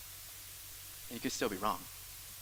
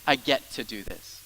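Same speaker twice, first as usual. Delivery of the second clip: "I get to do this" slower and settled, falling at the end; get-to gladness; 4 semitones lower than usual. Shown as a demonstration. Pastor showing a get-to attitude, glad settled tone. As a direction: say it like a privilege. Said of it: "or it's a".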